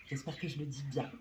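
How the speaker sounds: whispering to herself; whispered aside. Real, not acted. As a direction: drop to a whisper. Aside while unsure of a word.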